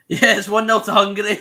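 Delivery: says it through a laugh; gleeful laughing announcement. Real, not acted. Gleeful at England losing.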